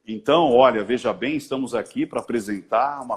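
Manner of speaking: low, formal public-speaker voice; mock-solemn address to an audience; stiff orator. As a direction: put on the orator's cloak, pompous and low. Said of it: "veste a capa, né, do orador".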